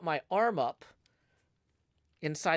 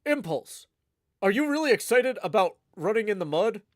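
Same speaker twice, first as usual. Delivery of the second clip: attempted impression of an excitable podcaster; lightly put-on hype-man voice; Skiz; 3 dB louder than usual. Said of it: "I don't know if I could do a Skiz voice".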